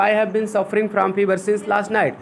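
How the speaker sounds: slow, evenly spaced words; slow dictation. Shown as a demonstration. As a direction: dictate it slowly. (धीरे-धीरे लिखवाना)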